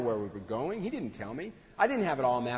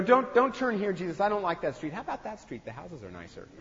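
a touch of a nagging passenger; fussy backseat driver; 4 semitones higher than usual. Retold or imitated. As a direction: fuss over which street to take. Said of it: "Or, you know".

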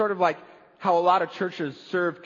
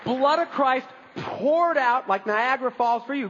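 high, slow, sweeping proclamation; exuberant proclamation; 5 semitones higher than usual. Acted. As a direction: pour the words out lavishly, stretching them. Contrasts lavish pouring with tidy drops.

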